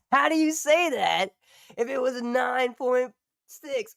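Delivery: high, loud incredulous laugh-talk; half laughing, half protesting; laughing disbelief. Real, not acted. Arguing with the article, laughing.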